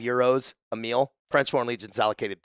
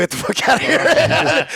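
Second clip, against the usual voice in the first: mock instructor yell; 14 semitones higher, 5 dB louder than usual. Instructors rejecting a recruit.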